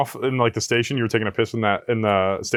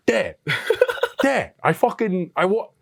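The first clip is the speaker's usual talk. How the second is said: put-on higher, slow kid voice breaking into a laugh; 5 semitones higher, slower than usual. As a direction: whine through the laughs like a caught kid. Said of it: "the kid was like".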